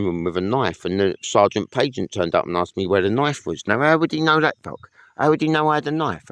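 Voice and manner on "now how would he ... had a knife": indignant. Real, not acted. Indignant question to the doctor.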